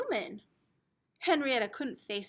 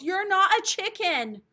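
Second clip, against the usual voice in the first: higher, louder insistence; a hint of a frustrated big sister; big sister losing patience; exasperated; 6 semitones higher, 6 dB louder than usual. Kim exasperated with her sister.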